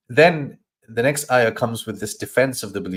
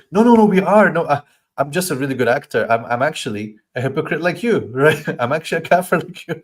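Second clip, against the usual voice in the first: defensive hypocrite; 5 semitones higher, 4 dB louder than usual. Acted. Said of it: "So they have to then say".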